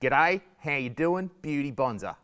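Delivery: hammed-up Aussie twang with stretched vowels; broad Australian accent. Shown as a demonstration. Comedian turns his accent on for students, broad Australian. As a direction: lay the Australian accent on thick. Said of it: "I'll turn the accent on".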